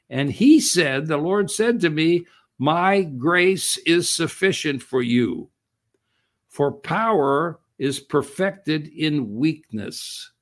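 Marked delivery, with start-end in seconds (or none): 2.6-10.3 slow, grave reading of God's words; solemn scripture quote. Acted. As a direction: lay out each word slowly and gravely.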